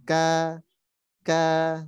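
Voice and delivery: Ka said with the tongue dropping at once; tongue drops. Shown as a demonstration. Teacher demonstrates kaf with vowel, relaxed. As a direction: release the k and let the tongue fall. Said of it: "ketika berharokat dia turun".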